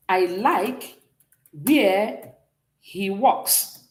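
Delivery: spaced out, as if writing along; word-by-word dictation. Shown as a demonstration. Teacher spelling out an example sentence for students, word by word. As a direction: say it in separated chunks, pausing between.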